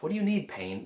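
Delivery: tender inner question to your own pain; talking to the pain. Shown as a demonstration. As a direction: ask your pain gently what it needs. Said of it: "You ask yourself".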